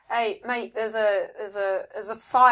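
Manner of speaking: put-on casual Aussie bloke, Australian accent; Australian accent, slightly flustered. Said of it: "Somehow sound Australian".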